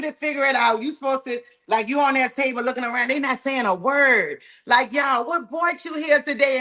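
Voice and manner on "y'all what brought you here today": excited greeting. Shown as a demonstration. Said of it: "And be excited".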